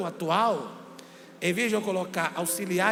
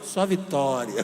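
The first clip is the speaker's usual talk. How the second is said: churchgoer catchphrase; 7 semitones lower, slower than usual. Retold or imitated. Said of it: "aquilo que todo crente fala".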